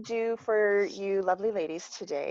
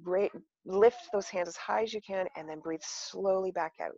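soft, calm guided breathing; soothing relaxation guide, gently; therapist voice; 4 dB quieter than usual. Shown as a demonstration. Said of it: "I'm gonna put my therapist voice on now".

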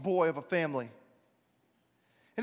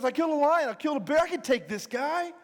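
insistent boast; 5 semitones higher than usual. Acted. David arguing he can take the giant, boastful. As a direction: pitch yourself for the fight.

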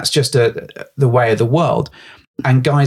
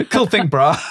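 bro voice, slightly higher; cocky dudebro greeting; gym bro; 5 semitones higher than usual. Pretend. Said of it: "talking like Dog the Bounty Hunter".

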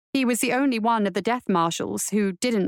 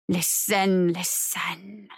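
chorus of voices; 4 semitones lower, much slower than usual. A narrator's reading. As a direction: intone it low and let it fade. Murmuring chorus returns.

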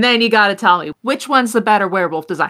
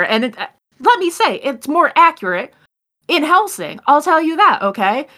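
feminine voice; 4 semitones higher than usual. Acted. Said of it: "this more feminine voice saying".

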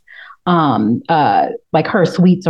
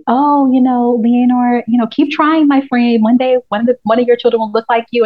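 high, sugary, fake-friendly taunt; mock condescending; 6 semitones higher than usual. Viewer imitating Allison taunting Leonor, high and mock sweet. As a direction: sweetly needle the rival. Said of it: "then Allison was like".

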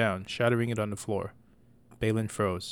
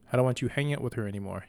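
shouted; faster than usual. Acted. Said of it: "she shouted as she approached".

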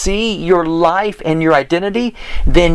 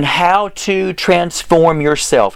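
slow, word-by-word dictation; much slower than usual. Real, not acted. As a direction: spell it out slowly for listeners typing it in. Dictating what to type in.

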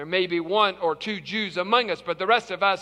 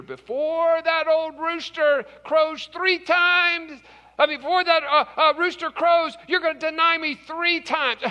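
knowing warning; 7 semitones higher than usual. Acted. Jesus foretells Peter's denial.

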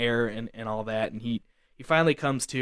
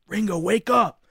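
high-pitched call to wake someone; acted-out attempt to rouse a friend; retold urgent call; 8 semitones higher, 4 dB louder than usual. Friend nudging the fallen man, calling urgently. Rousing motionless friend in the story.

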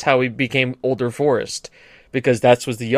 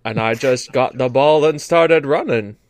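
put-on unhurried American Deep South accent; 4 semitones lower than usual. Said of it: "most famous Deep South accent".

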